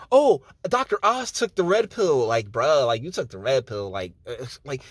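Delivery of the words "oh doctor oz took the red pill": higher, sing-song mockery; mocking fan voice. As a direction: mimic the gullible fans. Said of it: "like, yeah".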